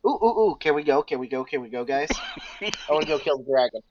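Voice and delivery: put-on giddy, eager child knight; kid on christmas morning. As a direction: bounce like an excited kid. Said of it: "get all giddy like a child".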